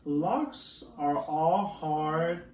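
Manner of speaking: slow, mildly whiny frog; frog's complaint. Acted. Teacher reading the reluctant frog, slow mild complaint. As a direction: drag out the frog's grumble. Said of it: "said the frog".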